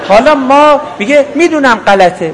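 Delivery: chuckling through the words; laughing. Real, not acted. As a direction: laugh as you say it. Laughs while quoting a student. (با خنده)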